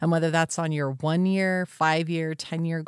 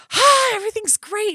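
much higher, sing-song cheery chirp; bubbly friend; 6 dB louder than usual. Retold or imitated. Imitating her always-upbeat friend, high and chirpy. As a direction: play the over-the-top cheerful friend. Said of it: "I have a friend who is so like".

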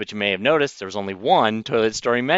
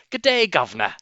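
a higher, jokey mock Cockney toff; 6 semitones higher than usual. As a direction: send up American stage Cockney. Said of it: "they go the Dick Van Dyke route".

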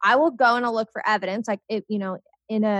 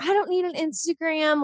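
higher, put-on reluctant dad voice; jokey dad impression, pitched up; imitation of dad; 5 semitones higher than usual. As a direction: balk like a caricatured stubborn father. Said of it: "that's what it sounds like".

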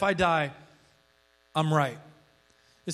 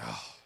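soft, low exasperated sigh; imitated huge sigh; 8 semitones lower, 16 dB quieter than usual. Mimicking woman annoyed by preacher's Bible, imitated huge sigh. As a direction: breathe out a put-upon sigh, mimicking her. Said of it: "this huge sigh and an eye roll".

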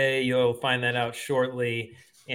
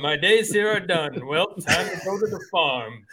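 put-on old-timey thirties voice; 4 semitones higher than usual. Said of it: "my old-timey thirties voice".

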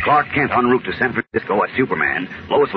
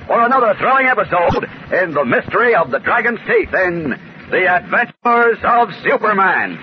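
building dramatic serial sign-off; rising, punchy cliffhanger narration; old radio announcer. A narrator's reading. Serial narrator closing episode.

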